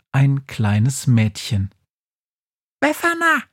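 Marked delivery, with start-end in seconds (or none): 2.8-3.4 very high, choked little squeak; squeaky mouse voice. Acted. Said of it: "quietscht mit erstickter Stimme".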